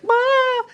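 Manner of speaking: a sudden high crying wail, played up; mock wail. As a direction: wail like you burst into tears. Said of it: "I was like".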